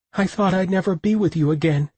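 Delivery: a woman whimpering through tears to her lover. A narrator's reading. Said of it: "she whimpered".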